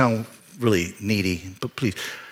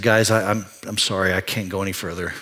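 quiet, broken confession, much softer; choked apology; 4 semitones lower, 4 dB quieter than usual. Retold or imitated. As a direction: barely get the words out, holding back tears. Breaking down before congregation.

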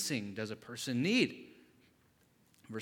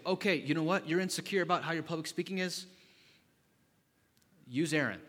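exasperated God; 6 semitones higher, 7 dB louder than usual. Acted. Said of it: "That God's gonna say".

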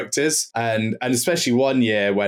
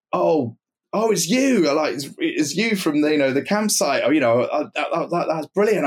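excited recognition; 5 semitones higher than usual. Retold or imitated. Joe excitedly recognizing the drummer.

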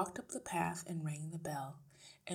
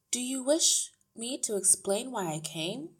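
lightly voiced teacher, higher and louder; a hint of pointed politeness; firm teacher; 7 semitones higher, 7 dB louder than usual. A narrator's reading. Miss Honey faces down the wife, firm.

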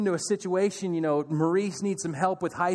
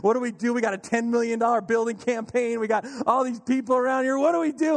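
running around with heads cut off; mock panic; 4 semitones higher than usual. Pastors panicking over the building campaign, frantic.

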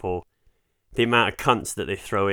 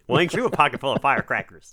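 1930s fast talker; faster than usual. Pretend. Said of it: "You got a bit sort of nineteen thirties there".

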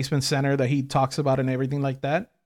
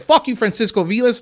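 raised, higher mock curse at him; mock president's curse; 5 semitones higher, 4 dB louder than usual. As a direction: sneer the president's insult aloud. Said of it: "he just said".

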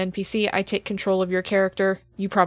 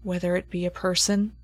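game master scene setting. Acted. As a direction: hand down the creature's judgement gravely. GM narrates the creature's judgement.

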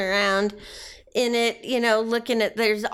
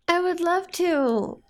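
tender; 8 semitones higher than usual. Acted. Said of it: "repeats her line".

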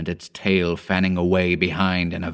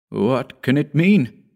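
gasped; 6 semitones higher, slower than usual. A narrator's reading. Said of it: "gasped Hugh".

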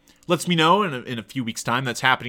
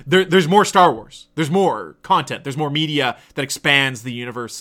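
excited nerd teacher; 4 dB louder than usual. Retold or imitated. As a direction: lean in like a fan spilling a secret, then settle back down. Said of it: "this guy was like".

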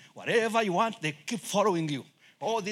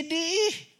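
reciting teacher; 11 semitones higher than usual. Retold or imitated. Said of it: "The teacher told me".

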